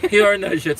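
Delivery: out of breath, gasping between words; breathless after shouting excitedly. Real, not acted. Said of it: "Sorry, I lost my breath".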